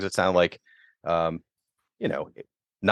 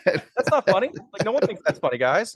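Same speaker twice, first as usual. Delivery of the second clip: high-pitched incredulous protest; mock indignation; 10 semitones higher than usual. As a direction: imitate an appalled listener. Acting out offended listeners.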